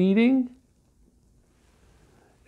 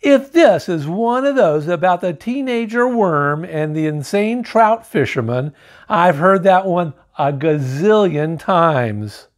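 sarcastic sneer. Acted. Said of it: "sneered sarcastically".

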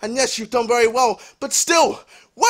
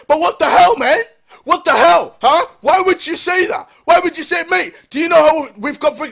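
higher, louder indignant demand; exasperated; 3 semitones higher, 5 dB louder than usual. Real, not acted. Fan asking why he would say that, exasperated. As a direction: demand an answer, worked up.

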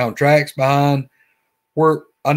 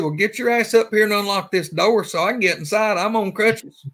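urgent; 7 semitones higher than usual. Retold or imitated. Speaker urging friend to unlock.

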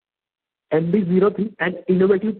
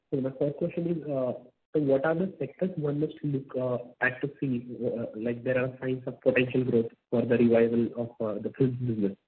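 quiet, indistinct question; hard to hear; 2 semitones lower, 6 dB quieter than usual. Real, not acted. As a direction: ask softly, too faint to hear clearly. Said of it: "we can't hear you. You're not very clear".

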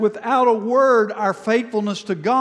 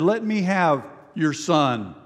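slow and gentle, a little lower; very gently; 3 semitones lower than usual. Retold or imitated. Elijah gently asks the angry grieving mother for her boy. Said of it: "And so very gently".

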